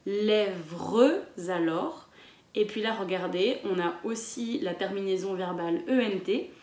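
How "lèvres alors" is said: lèvres alors very slow, with the z linking into alors; slow demo of lèvres alors; stretched liaison. Shown as a demonstration. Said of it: "il faut bien dire".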